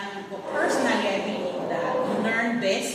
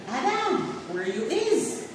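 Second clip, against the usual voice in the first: retold friend calling; 7 semitones higher, slower than usual. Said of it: "And she said".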